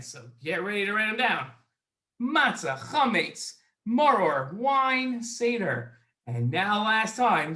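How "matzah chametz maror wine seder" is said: words run together briskly with no gaps; quick list. Shown as a demonstration. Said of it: "Now I'm gonna say them quickly".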